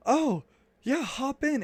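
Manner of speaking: high, loud, bright-eyed invitation; eager call. Retold or imitated. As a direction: shout it up high like an eager kid. Missionaries eagerly inviting him in.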